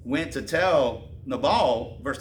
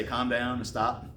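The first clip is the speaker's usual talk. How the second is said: a slow, steady hint of calming; 3 semitones lower, 5 dB quieter than usual. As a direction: gently urge calm. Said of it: "the person that's gonna say".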